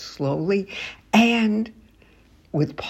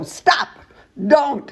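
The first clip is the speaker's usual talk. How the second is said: high, sharp scold; sharp stop don't; 8 semitones higher than usual. Shown as a demonstration. Teacher scolding a child, sharp high "don't". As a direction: snap it out at a misbehaving kid. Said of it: "you go".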